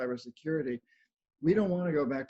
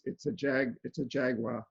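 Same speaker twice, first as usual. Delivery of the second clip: imitating a New Hampshire "jaguar"; light mock New Hampshire accent. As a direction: say jaguar like a New Englander, ending in "wah". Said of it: "little bit of that New Hampshire accent".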